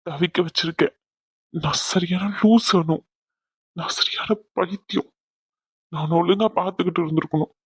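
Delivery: halting, understated weepy confession; tearful self-reproach. Acted. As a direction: blame yourself, pausing between phrases. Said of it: "அழுதுகிட்டு இருக்கீங்க". (அழுகை கலந்த குற்ற உணர்ச்சி)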